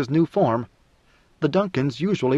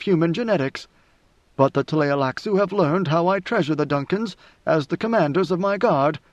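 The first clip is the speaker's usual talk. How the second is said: a lightly raised, measured voice of an ancient ruler musing; God Emperor's inner voice; 3 semitones higher than usual. Acted. Leto privately musing about the Tleilaxu and Duncans, wry. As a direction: muse coolly to yourself, amused and above it all.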